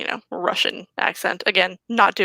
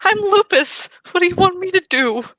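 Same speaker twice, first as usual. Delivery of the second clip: higher, louder, fast indignant what-do-you-want; exasperated protest; 9 semitones higher, 3 dB louder than usual. Acted. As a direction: throw the question back, fed up. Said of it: "Alexi's like".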